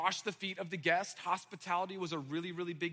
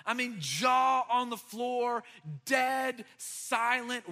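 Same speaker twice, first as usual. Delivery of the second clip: preaching emphasis; 3 semitones higher, 4 dB louder, much slower than usual. Acted. Preacher stressing the stunned room.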